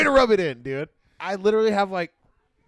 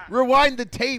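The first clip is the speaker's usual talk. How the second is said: "Rewind the tape" louder, higher and slow, each word stressed; emphatic repeat; 7 semitones higher, 6 dB louder, slower than usual. Real, not acted. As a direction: demand it again, laughing, hammering it home. Repeats demand, louder, slower.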